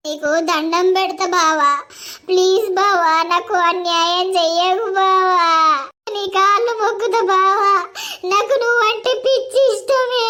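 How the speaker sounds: begging through sobs, voice catching; wife in tears begging her husband not to leave; tearful pleading. Acted. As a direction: plead with him as if your life depends on it. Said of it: "ఆగవ్వా, నువ్వు ఏడవ కాగు".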